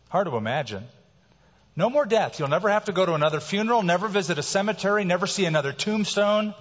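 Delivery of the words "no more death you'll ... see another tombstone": excited preaching. Acted. Preacher gets excited about heaven.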